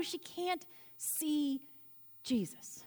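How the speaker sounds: slow and soft, fading to a whispered "Jesus"; preacher hushing the room before the name. Shown as a demonstration. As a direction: let "she can't see" trail off, then breathe "Jesus".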